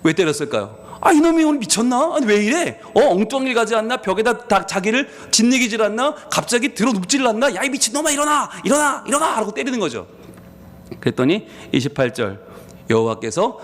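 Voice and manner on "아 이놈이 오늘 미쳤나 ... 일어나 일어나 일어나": higher, building to repeated shouted commands; furious yelling. Acted. Balaam beating the fallen donkey, shouting furiously. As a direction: scream at the donkey to get up.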